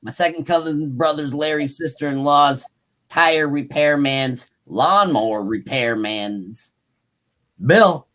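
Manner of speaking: projected, deliberate account reading; story read-aloud. A narrator's reading. Host reading about tracks and yells, story read-aloud.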